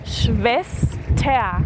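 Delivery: Schwester said as shvesta; teacher demonstrating Schwester; German pronunciation. Shown as a demonstration. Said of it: "La R al final como una A".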